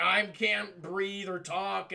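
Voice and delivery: slow, laboured imitated speech; Nemesis. Wounded Jill unable to breathe, slow mock struggle. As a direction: struggle the words out slowly. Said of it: "She sounds like Nemesis now".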